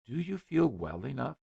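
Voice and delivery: anxious. A narrator's reading. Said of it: "said Ethel anxiously".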